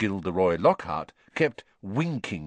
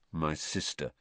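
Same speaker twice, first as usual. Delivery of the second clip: low and much softer, aside; undertone; 5 semitones lower, 8 dB quieter than usual. A narrator's reading. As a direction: keep it just between you two. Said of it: "said Ron in an undertone".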